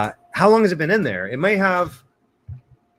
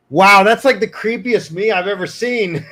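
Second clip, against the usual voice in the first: surprised; 7 semitones higher, 9 dB louder than usual. Real, not acted. Shocked at creepy AI image.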